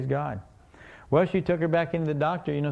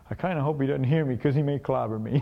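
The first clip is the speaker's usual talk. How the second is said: laughing fearful thought. Pretend. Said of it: "you're thinking".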